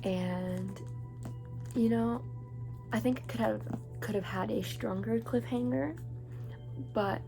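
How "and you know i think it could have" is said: talking around a retainer; words a bit blurred by a retainer; wearing a retainer. Real, not acted. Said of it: "I have my retainer in".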